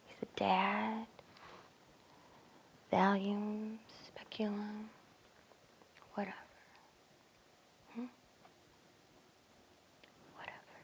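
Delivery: very soft, spaced-out list; whispered dismissal. Acted. Brushing off the list to Daisy, dismissive whisper. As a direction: trail each item off into a whisper.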